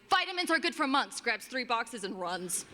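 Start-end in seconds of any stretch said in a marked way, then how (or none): 0.1-1.2 lightly voiced customer announcing her find; monk lady quote. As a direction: quote her with a pleased little lift.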